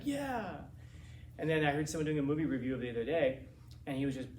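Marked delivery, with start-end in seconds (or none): 0.0-0.5 high, falling cheer at moderate volume; re-enacted cheer. Little kid watching the Wolverines win, re-enacted cheer. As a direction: cheer along like a thrilled young fan.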